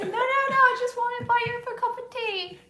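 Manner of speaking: high, loud comic pleading; misunderstood snake. Acted. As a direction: protest innocence as a cartoon snake. Misunderstood snake pleading with frightened people.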